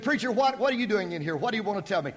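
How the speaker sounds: a startled wife asking why he's there; wife surprised to see her preacher. Retold or imitated.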